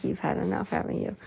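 hushed, amused aside; half-laughing tease; soft teasing aside. Retold or imitated. Narrator teasing about the tired listener, softly amused. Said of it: "He's like".

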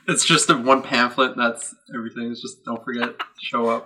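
loud laughing read; laughing loudly. Acted. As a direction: read it through big laughter. Mocking the church pamphlet.

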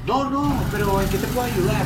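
high, delicate imitation of the man; lightly mock his thin, high voice; imitating a stranger's high, delicate voice; fine, high voice. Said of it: "un poco fina, así como un poco aguda".

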